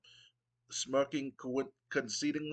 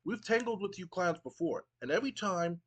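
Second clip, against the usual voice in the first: lightly voiced wrestler cutting a promo, pitched higher; hyped Matt Hardy; 5 semitones higher than usual. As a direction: brag to the crowd and call out rivals. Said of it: "Matt Hardy goes".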